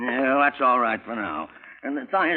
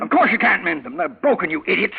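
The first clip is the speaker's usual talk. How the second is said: contemptuous scolding; 4 semitones higher than usual. Acted. Uncle scolds niece.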